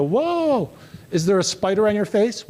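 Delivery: a sudden high whoa, then a lighter question; mock surprise. Speaker to the girl, feigning surprise at a spider. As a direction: feign alarm about a spider on her face.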